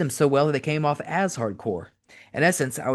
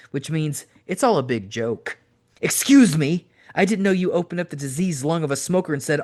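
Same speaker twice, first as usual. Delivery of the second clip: intense, preachy heel promo delivered to Tommy; wrestling promo; 3 semitones higher than usual. Acted. Cactus Jack cutting a promo on Tommy Dreamer, intense and preachy.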